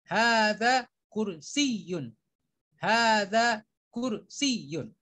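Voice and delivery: slow careful Arabic, each word read twice; slow model reading. Shown as a demonstration. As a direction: model every short and long vowel for students. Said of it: "Tolong diperhatikan baik-baik cara membacanya". (bacaan contoh yang pelan dan diulang)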